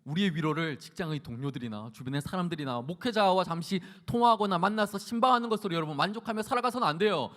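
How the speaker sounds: ordinary talk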